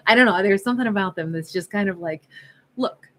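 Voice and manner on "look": put-on blunt New York accent, dropping away at the end. Tarot reader voices realist character talking to self, New York accent. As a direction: tell it straight, New York style. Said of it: "give a New York accent to this character".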